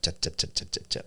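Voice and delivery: "Cha, cha" in a flat monotone with no ups and downs; flat syllables to show no intonation. Shown as a demonstration. Showing how Japanese sounds to English ears, flat monotone. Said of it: "there's no ups and downs".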